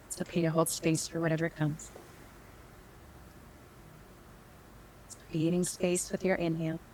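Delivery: unhurried meditation guide with long pauses; calm, measured meditation teacher; guided meditation. Real, not acted. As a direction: lead them gently inward, leaving space between phrases.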